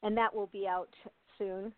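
a light Canadian lilt on "out" and "soon"; said with a hint of a Canadian accent; Canadian-sounding. Shown as a demonstration. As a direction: slip into a faint Canadian accent on "that will be out soon". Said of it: "I sound Canadian".

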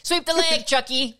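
mock coach yell. Quoting Karate Kid line.

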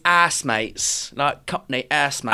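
"ass" with a short flat vowel, as in "gas"; corrected pronunciation. Shown as a demonstration. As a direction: say "ass mates" slowly, short "a" instead of "ah". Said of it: "producer Tom has just corrected you".

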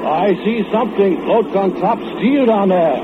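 a hint of feigned interest; luring quote. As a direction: draw him in. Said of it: "you hear yourself say".

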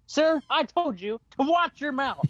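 high, slow, emphatic reprimand; mock stern, each word weighed; escalated retold scolding. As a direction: imitate a woman fed up on her second warning. Woman's second, firmer warning.

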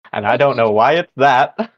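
ordinary talk

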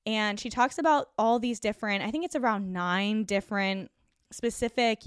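usual speaking voice

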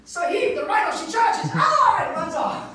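hammed-up nature-show guide; mock safari guide. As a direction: narrate the charge like a frantic safari guide. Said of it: "turns into an African safari guide".

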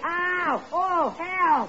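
high, hammed-up cries for help; overdone mock yelping; faked pain yells. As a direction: pretend to be thrashed. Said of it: "you yell kind of loud".

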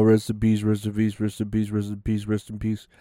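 fading mock echo of condolences; mocking repetition. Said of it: "It was all".

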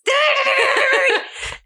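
very high, sustained ringing noise; imitated ringing. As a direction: trill like an alarm bell going off. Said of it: "Now it's like, it was, it was".

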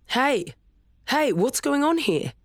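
high calling shout across the park. A narrator's reading. Father calling out to his arguing kids from afar. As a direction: call out while running over. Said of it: "her father called".

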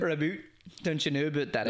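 jokey Canadian accent with "boot" for "about"; caricatured Canadian accent; mock Canadian accent. Shown as a demonstration. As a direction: exaggerate the Canadian vowels, tag on an "eh". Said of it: "when you do a Canadian accent".

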